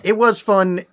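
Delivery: dry, sarcastic agreement. Real, not acted. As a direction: say it with a bit of sarcasm. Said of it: "a bit of sarcasm in my voice".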